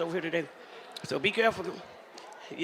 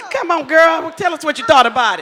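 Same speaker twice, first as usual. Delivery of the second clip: coaxing call; 6 semitones higher, 6 dB louder than usual. Real, not acted. Calling guest up loudly.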